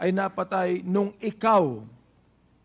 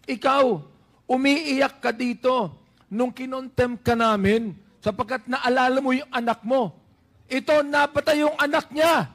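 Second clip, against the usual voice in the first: raised, pressing voice that hammers each point; forceful emphasis; 3 semitones higher than usual. Real, not acted. Senator confronting the colonel over a dead son, forceful and raised. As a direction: push the accusation home. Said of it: "To give emphasis to what I'm trying to say".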